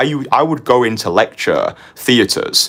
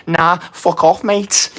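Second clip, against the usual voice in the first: gruff, much higher mock Scottish brush-off; Scottish accent; 10 semitones higher, slower than usual. Burly club guy brushing off a young magician, in a Scottish accent. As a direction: throw it off like a burly Scottish bloke. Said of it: "That was actually a Great Scots accent".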